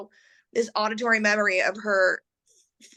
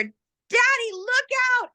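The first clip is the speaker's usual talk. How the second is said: put-on much higher, urgent child's warning cry; kid's frightened cry; 3 dB louder, much slower than usual. Kid warning dad before the crash, high frightened cry. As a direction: cry out like a scared kid in the car. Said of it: "And then you hear".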